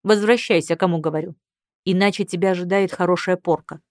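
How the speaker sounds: loud, firm command; stern threat. Acted. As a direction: snap the order at her. Husband threatens wife. (строгий приказ с угрозой)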